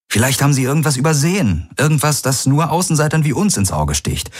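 rally her, refuse to give up; lightly voiced lover urging hope; determined man, encouraging.

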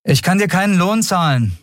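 Captain Nagun telling Miko she can't pay. Acted. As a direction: break it gently. Captain voiced higher.

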